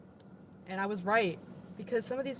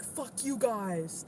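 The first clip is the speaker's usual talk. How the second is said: mock aggressive; 3 semitones higher, much slower than usual. Shown as a demonstration. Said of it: "That's aggression".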